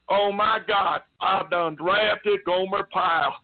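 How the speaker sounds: lightly voiced drill sergeant in disbelief; mock exasperation, slowly stretched out; imitated exasperated sergeant. Retold sergeant's exasperated reaction.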